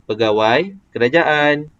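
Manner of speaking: "Pegawai kerajaan" slow, both words drawn out; marked intonation. Shown as a demonstration. Teacher demonstrating intonation on the predicate, marked intonation. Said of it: "nampak tak ada intonasi kat situ".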